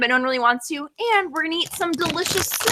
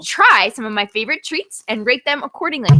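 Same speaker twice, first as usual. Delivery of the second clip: letter read aloud in her own accent; reading a fan letter; 2 semitones lower than usual. Shown as a demonstration. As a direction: read the note to the audience plainly. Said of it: "In my regular accent".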